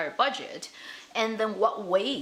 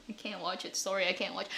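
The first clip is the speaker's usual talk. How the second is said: subdued refusal; 2 semitones lower, 7 dB quieter, faster than usual. Retold or imitated. Acting out giving up on drama.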